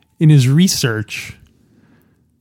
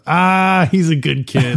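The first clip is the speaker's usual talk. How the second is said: raised "Ah", then drop to an easy brush-off; dismissive; 3 semitones higher, slower than usual. Acted. Cop saying don't worry about it, mildly dismissive. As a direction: mildly wave it away, imitating the cop. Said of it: "like a dismissive kind of like".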